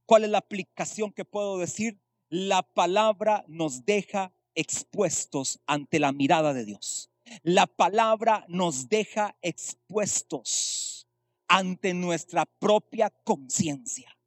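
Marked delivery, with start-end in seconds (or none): 2.3-7.1 slow, weighty statement of the main point; said slowly and deliberately, word by word; slow emphatic. Acted. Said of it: "Escuche eso". 7.4-14.2 slow, weighty statement of the main point; said slowly and deliberately, word by word; slow emphatic. Acted. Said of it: "Escuche eso".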